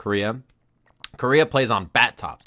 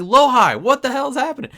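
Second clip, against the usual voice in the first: loud, much higher mock yell at the screen; retold yell; 13 semitones higher, 6 dB louder than usual. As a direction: shout it like the screen just died on you. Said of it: "I, I yelled out".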